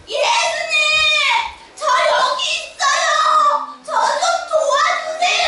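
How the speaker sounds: high, loud calling out to Jesus; crying out loud. Acted. 눈먼 바디메오가 멀리 있는 예수님을 부르며 큰 소리로 외침. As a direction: call out as loud as you can. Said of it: "큰 소리로 말해".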